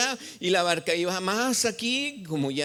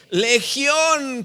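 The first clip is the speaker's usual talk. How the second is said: loud answer; 7 semitones higher, 7 dB louder than usual. Acted. Demoniac answers Jesus.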